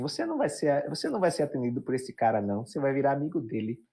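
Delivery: light Bahian lilt, mimicking the wife; a hint of a Bahian accent; mild Bahian accent for the friend's wife; imitating a Bahian accent. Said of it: "eu tô imitando o sotaque deles".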